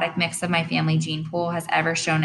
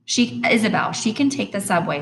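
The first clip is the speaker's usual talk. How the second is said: impatient; 5 semitones higher than usual. Acted. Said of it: "said Dad impatiently".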